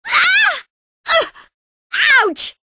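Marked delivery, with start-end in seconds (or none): 0.1-0.6 high sharp cry of pain; sudden hurt shriek; pained yelp. Acted. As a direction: yelp as if struck.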